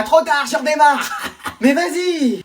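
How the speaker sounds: slow laughing taunt; mocking laugh. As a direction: laugh slowly while driving away. Bus driver laughs, leaves.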